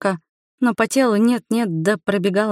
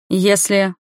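cut off mid word. A narrator's reading. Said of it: "Она оборвала на полуслове".

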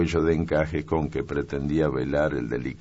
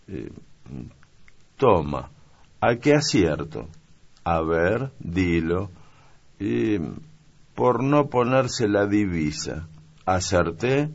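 put-on higher, playful girl's voice; young maid guessing; 5 semitones higher, 4 dB louder, slower than usual. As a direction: tease out the guess like a game. (criada juguetona, voz aguda)

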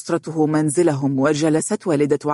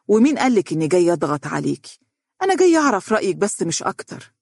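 surprised; 3 semitones higher, faster than usual. Acted. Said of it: "قالت والدتها بدهشة".

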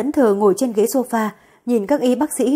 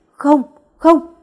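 shocked denial; 5 semitones higher, 5 dB louder than usual. Acted. Daughter in shock after stabbing.

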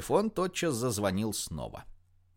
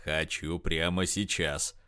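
confident; 5 semitones lower, slower than usual. A narrator's reading. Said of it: "уверенно сказал могучий стареющий пивун".

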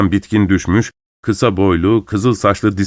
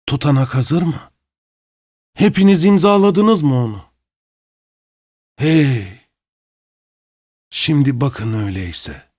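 teasing countdown; 3 semitones higher than usual. A narrator's reading. Masked man counting to unmask.

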